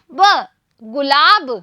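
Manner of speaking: गुलाब said slowly; slow model word. Shown as a demonstration. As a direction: lengthen गुलाब for the class. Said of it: "मैं आपको पढ़ के दिखा रही हूँ". (गुलाब धीरे-धीरे)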